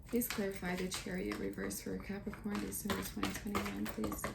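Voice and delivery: soft, murmured plea to spirit; hushed request. Real, not acted. Reader quietly asks spirit to clarify the card, hushed. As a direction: ask the cards quietly, almost to yourself.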